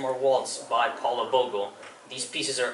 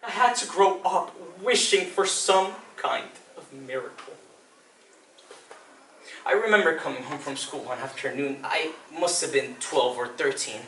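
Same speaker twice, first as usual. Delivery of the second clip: subdued reminiscence. Acted. Child remembering a man with mother, hushed halting delivery. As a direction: feel your way uneasily into the memory. Second monologue, uneasy childhood memory.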